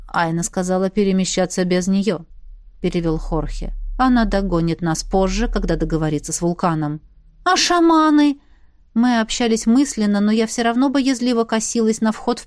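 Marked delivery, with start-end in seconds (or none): 0.1-7.0 lower, steady commander voice; low calm commander. Acted. Переводит Хорхе. 7.4-8.4 anxious question. Acted. Встревоженный вопрос.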